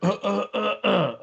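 staccato "uh, uh, uh, uh"; imitated wordless noise. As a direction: mime a string of little wordless noises. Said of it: "you just go".

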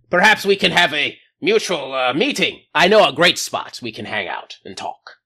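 lightly voiced boastful alien commander; a hint of a pompous alien leader; alien captain on comms. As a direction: puff up like a proud but bumbling captain.

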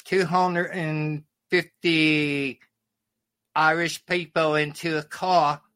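comic English impression; English accent. Russian comic imitating English folks telling a joke, English accent. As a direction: tell it as a mock English club joke. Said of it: "Or, or the English folks".

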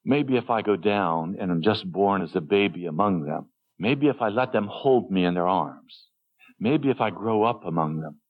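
gentle. Acted. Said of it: "He said".

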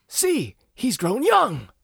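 high, loud and very slow stilted English; Keanu British accent impression. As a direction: drag out a wooden British accent. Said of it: "And then he says".

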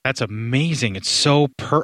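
sarcastic mock praise; facetious. Real, not acted. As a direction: pretend to be amazed, tongue in cheek. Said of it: "I'm being facetious".

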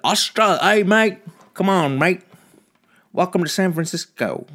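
high, loud mock Australian; Australian accent. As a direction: put on a broad Australian accent. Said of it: "What the fuck am I doing with my fucking accents?".

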